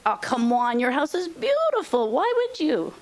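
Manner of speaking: high-pitched incredulous naysayer; coaxing, disbelieving objection, acted out; mock dismissive protest. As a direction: imitate doubters talking you out of it, pitch climbing high. Voicing people who doubt a move.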